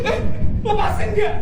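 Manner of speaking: loud, high demand for release; high-pitched furious protest; angry shout. Acted. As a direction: shout at the guard holding you. Girl grabbed, demands release.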